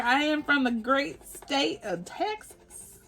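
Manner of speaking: high, slow, drawn-out proclamation; mock-grand announcement. Introducing herself to new viewers, mock-grand Texan announcement. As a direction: proclaim it slowly with playful state pride. Playing up Texan roots after accent joke.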